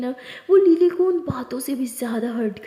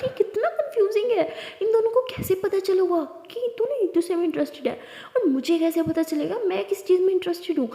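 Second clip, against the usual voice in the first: excited and confused; 3 semitones higher than usual. Acted. Diya gushing over the couple, then confused. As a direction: gush then spiral into confusion. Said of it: "बहुत खुश होती है".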